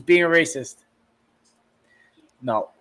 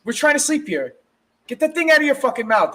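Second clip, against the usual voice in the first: half-hearted scolding of the dog, rising to higher pitch at the end; mock annoyed at the dog; 4 semitones higher than usual. Woken owner scolds his dog at night, mock annoyed. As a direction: tell the chewing dog off, mildly irritated. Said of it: "You're like".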